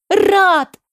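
high, loud call, drawn out on one word; startled cry. A narrator's reading. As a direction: cry the name out in sudden shock. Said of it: "выкрикнула я". (взволнованный выкрик)

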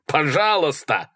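exasperated, drawn-out begging shout; pleading yell. A narrator's reading. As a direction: stretch it out as a yelled plea. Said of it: "заорал Малькольм".

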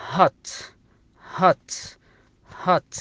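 هات with open a as in hat; English word hat. Shown as a demonstration. Teacher drilling هات for the class. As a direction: say هات with a fatha vowel. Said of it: "تنطق بالفتحة".

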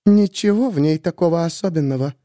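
lightly voiced scorn. A narrator's reading. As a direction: dismiss her with scorn.

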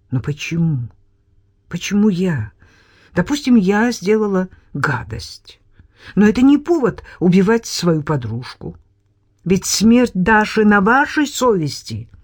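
indignant outburst, rising; flaring up. Acted. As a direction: flare up at him. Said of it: "вспыхнула я".

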